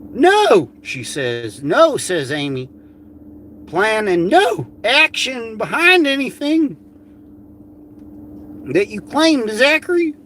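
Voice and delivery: shrill it out as her; Amy Crackhead voice. Retold or imitated. Mocking her reply in her put-on voice. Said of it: "in Amy fucking Crackhead the Code voice".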